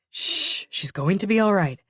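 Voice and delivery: reassuring hush; soothing. Acted. Detective calming victim about her sister, soothing.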